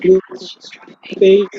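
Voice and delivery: choppy, cutting-out connection; words dropping out over a bad line; radio breaking up. Real, not acted. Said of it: "sir, আপনার কথা অনেক কেটে কেটে আসছে".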